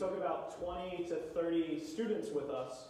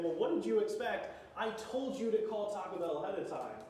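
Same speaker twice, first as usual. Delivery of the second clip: raised, higher-pitched telling-off; imitated scolding yell; 5 semitones higher than usual. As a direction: scold like an exasperated youth leader. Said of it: "my youth leader's yelling at me".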